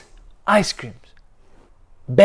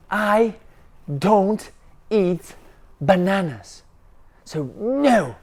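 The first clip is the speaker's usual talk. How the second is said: angry yell; 2 semitones higher than usual. Acted. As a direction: shout it like a stubborn kid who won't eat. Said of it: "and Ben yelled".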